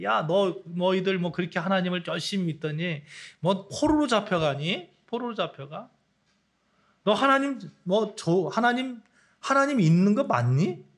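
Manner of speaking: lightly sneering neighbours jeering at believers; a hint of scornful ridicule; mocking taunt. Nations taunting captive Israel, lightly mocking. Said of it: "이렇게 조롱하는 거죠".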